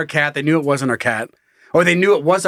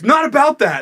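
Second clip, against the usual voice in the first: mock outraged shout; 10 semitones higher than usual. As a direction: yell it like you're fed up with the neighbors. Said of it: "It's like".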